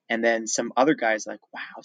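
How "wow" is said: much softer, hushed wow; retold hushed amazement; imitated whispering. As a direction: murmur it like a classmate whispering. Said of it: "sort of whispering about it".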